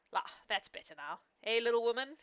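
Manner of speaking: a touch of contented relief, lifting on little woman; pleased, easy comfort after the brandy; satisfied sigh. A narrator's reading. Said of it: "with a sigh of satisfaction".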